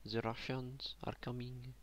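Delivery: lightly put-on Russian accent. Player warns neighbours that Russians are coming, mock Russian accent. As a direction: menace the world in a mild Russian accent. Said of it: "That's my Russian accent".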